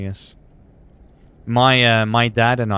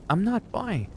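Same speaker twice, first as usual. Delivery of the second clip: indignant mock protest; 10 semitones higher than usual. Retelling his reply to a puzzling classmate, high mock protest. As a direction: squeak out a mock denial.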